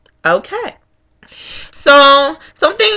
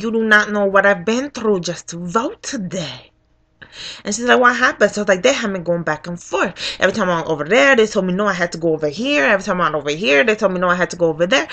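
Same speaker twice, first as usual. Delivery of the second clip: weary complaint; 7 dB quieter, faster than usual. Retold or imitated. Voter telling worker her ordeal, weary. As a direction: pour it out quietly, worn down.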